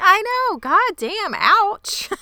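loud, very high exclamations; high, emphatic sympathy; indignant agreement. Real, not acted. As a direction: cry out in pained outrage.

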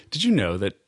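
mildly halting retold speech; lightly imitating halting English. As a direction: pause mid-sentence as if searching for English. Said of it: "this is all in sort of a halting English-German".

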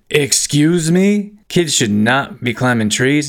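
high, slow, outraged question; mock scandalised excuse me; indignant disbelief. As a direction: act shocked at what she just said. Retold indignant reply about trees.

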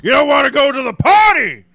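happy clown voice. Acted. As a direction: tease like an overexcited clown. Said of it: "happy clown's all about it".

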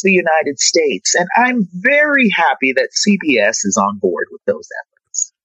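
polished PR statement voice; professional answer. Pretend. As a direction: sound like a corporate spokesperson. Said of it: "I'm gonna give you the professional answer now".

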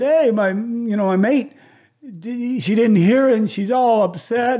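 high-pitched worried plea; upset partner. Retold or imitated. Caller imitating an upset partner asking for a callback. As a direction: squeak it out like a fretting partner.

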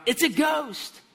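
high, loud terrified shout; fearful cry. Acted. Disciples seeing Jesus walk on water, crying out in fear. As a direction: cry out in mock terror. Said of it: "In their fear, they cried out".

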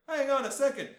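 high, loud mock protest; hammed-up shouted objection; Wolverine. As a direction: cut in as an exasperated cartoon hero. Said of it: "and also Wolverine. He's like".

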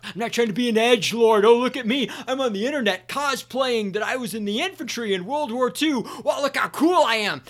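high, loud mocking voice of a show-off; mocking edgelord. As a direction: sneer like a smug internet poser. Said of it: "mocking internet edgelords".

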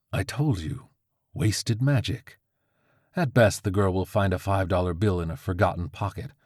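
lightly voiced know-it-all crow; a hint of a smug bird; smug crow familiar.

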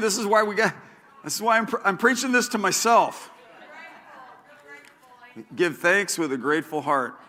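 normal talking voice

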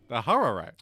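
imitating an Asian accent on Hutterite; mock Asian accent. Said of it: "That's how Asian people say Hutterite".

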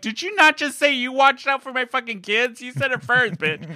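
high, mocking angry comeback; retold angry retort. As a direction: throw her words back at her. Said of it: "I'm like".

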